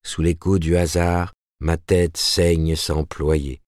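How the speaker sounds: slow, solemn recital of a poem; declaiming verse. A narrator's reading. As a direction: declaim it slowly like poetry. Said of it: "avant de déclamer".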